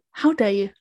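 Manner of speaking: playfully offended, after a gasp; mock affront. Teased about the Scottish accent, mock affront. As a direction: feign being insulted.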